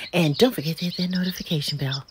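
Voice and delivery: fast whispered reminder; whispered aside. Real, not acted. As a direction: whisper it quickly to viewers. Rushed outro reminder.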